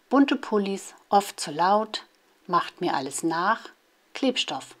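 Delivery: measured poem reading, line by line; children's poem read out in separate short phrases; poem recitation. Acted. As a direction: recite short poems with a pause after each line. Reads example poems aloud.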